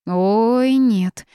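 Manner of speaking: loud, panicked "Ой, нет!"; frightened yelp. A narrator's reading. Toad refuses to give blood, panicked. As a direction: squeal it out and dive for cover.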